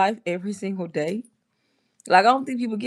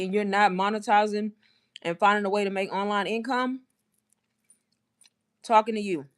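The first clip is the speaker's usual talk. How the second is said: chewing gum. Real, not acted. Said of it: "I gotta spit this gum out".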